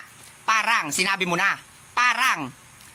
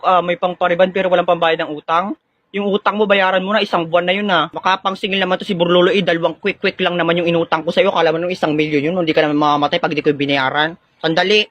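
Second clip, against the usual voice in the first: loud, irritated debt quarrel; angry; 2 semitones lower, 6 dB louder than usual. Acted. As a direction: argue loudly over a debt. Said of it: "Bakit parang galit ka?".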